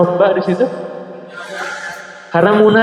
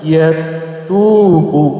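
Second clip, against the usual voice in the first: slow reading demo; much slower than usual. Shown as a demonstration. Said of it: "Nah, ini bacanya liman".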